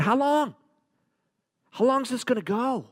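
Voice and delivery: high-pitched fed-up plea; exasperated questioning. Acted. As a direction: act out a servant at wit's end. Servants' fed-up question, acted out.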